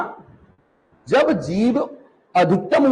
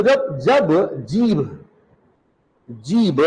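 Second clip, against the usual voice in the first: slow dictation; 3 semitones lower, much slower than usual. Shown as a demonstration. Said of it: "लिखो".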